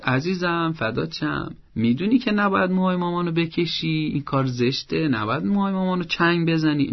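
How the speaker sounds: gentle and kind. Shown as a demonstration. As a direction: tenderly scold a small child, drawing it out. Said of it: "با لحنی آروم و مهربانانه".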